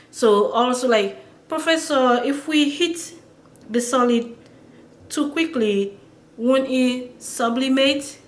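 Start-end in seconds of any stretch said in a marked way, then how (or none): 1.5-8.2 put-on higher-pitched student question in a French accent. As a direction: ask the professor in a French accent. Acts out line in French accent.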